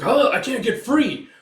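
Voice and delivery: high, loud cry of alarm; panicked yell. Retold or imitated. Character tied to the falling ship, panicked yell. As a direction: act out a trapped character yelling.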